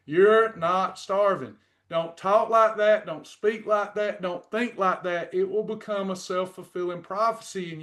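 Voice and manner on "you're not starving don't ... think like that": firm scolding. Real, not acted. Scolding a worried dieter.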